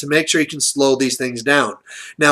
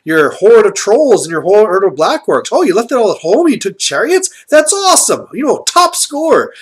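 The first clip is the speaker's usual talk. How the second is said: higher, gushing fan praise; mock enthusiastic; 5 semitones higher than usual. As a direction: rave like a delighted opponent admiring the list.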